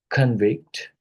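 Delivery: "convict" as CON-vict, first syllable leaned on; "convict" with weight up front, then falling; stress on first syllable. Shown as a demonstration. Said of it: "First syllable".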